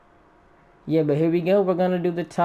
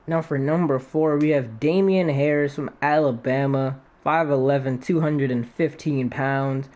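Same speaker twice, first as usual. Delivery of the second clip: WWE announcer. Acted. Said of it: "I sound like a W W E announcer right there".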